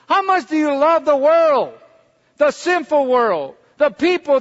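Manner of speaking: rising, insistent preacher's cadence; preaching at full force. Acted. Preacher pleading to the congregation, rising and insistent. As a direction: drive it home to the congregation.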